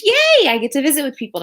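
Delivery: sudden squeaky high yay, half joking; a bright put-on cheer; high-pitched sarcastic yay; mock cheer. Real, not acted. Customer interrupts her reading.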